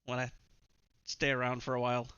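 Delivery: lightly put-on Irish accent, evasive; a hint of Irish lilt, dodging the question. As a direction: vague answer in a faint Irish accent. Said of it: "obfuscation in, uh, uh, Irish accent".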